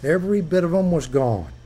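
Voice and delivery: lightly voiced old fisherman; a touch of the old skipper; a hint of Henry. Henry telling the crew over coffee, lightly voiced. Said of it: "Henry says".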